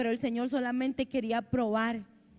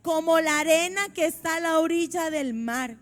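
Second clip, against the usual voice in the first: solemn scripture reading; 3 semitones higher than usual. A narrator's reading. Preacher reading God's promise to Abraham, solemn proclamation. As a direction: declaim it in measured, raised phrases.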